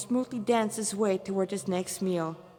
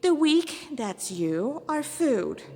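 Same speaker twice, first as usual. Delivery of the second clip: higher, cold demon pronouncement; haughty demon; 5 semitones higher than usual. Acted. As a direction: lecture the weak with contempt. Demon character voice.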